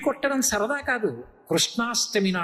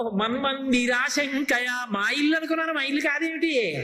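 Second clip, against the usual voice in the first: put-on child Krishna; 3 semitones higher than usual. Acts child Krishna feigning innocent mistake.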